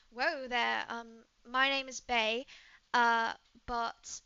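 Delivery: lightly voiced British woman; cool British-accented reply. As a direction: rein someone in with a mild British accent. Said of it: "She is British".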